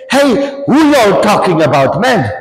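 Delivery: imitating a dad's Durban accent; strong Durban accent. Visiting father butting in on young guys, strong Durban accent. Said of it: "Sterk Durban accent".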